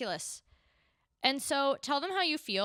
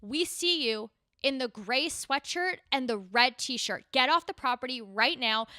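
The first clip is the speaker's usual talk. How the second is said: loudspeaker announcement; 3 semitones higher, 6 dB louder than usual. Retold or imitated. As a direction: boom it out like a security PA system. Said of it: "the voice goes".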